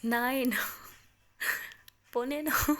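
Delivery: loud stalling count. Retold or imitated. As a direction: stretch each number, hoping to be stopped. Stalling countdown, hoping to be stopped.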